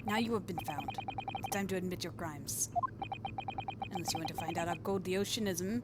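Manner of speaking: put-on amateur Russian accent. Russian guy demanding a confession, mock Russian accent. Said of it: "it's the Russian guy".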